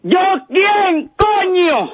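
grito exasperado real; grítalo harto; angry shout. Real, not acted. Grita harto al bromista. (grito exasperado)

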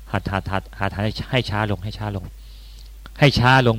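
low, hushed note to self; quiet self-coaching. Acted. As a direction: mutter a repeated reminder to yourself, softly. Coaching oneself to slow down.

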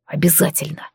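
the dragon answering the queen, low and velvety. Acted. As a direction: answer deep and smooth, like a promise. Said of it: "низким бархатным голосом отозвался Амир".

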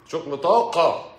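slow, sarcastic drawl on the phrase; mocking. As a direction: savour the words with scorn. Mocking energy jargon. (سخرية ببطء)

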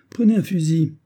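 brisk command. Acted. Captain hands the shot to his companion, brisk command. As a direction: order a companion into action. Captain orders narrator to shoot.

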